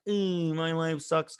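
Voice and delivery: slow, drawn-out put-on wallowing; mock moping. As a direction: imitate a self-pitying moaner. Mocking someone who mopes.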